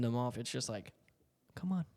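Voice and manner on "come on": joking hurry-up. Pretend. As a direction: rush them playfully. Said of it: "Like, as a joke".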